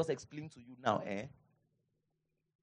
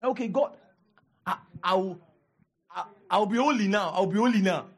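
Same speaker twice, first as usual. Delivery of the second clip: hammed-up vow to be holy, a bit louder; mock promise; 2 semitones higher, 4 dB louder than usual. Pastor mimicking shallow believers, mock vow to God. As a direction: promise God like a cornered bargainer. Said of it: "that's what many people think".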